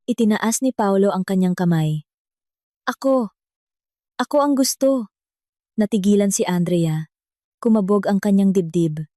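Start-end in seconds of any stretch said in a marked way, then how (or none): 2.9-5.1 higher-pitched, eager volunteer; lightly acted eagerness. A narrator's reading. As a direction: put yourself forward, pitch lifted. Paolo volunteers for open mic.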